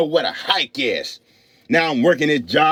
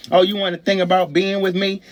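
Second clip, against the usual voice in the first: flirting woman; 5 semitones higher than usual. Acted. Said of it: "Then a woman start giving me signs".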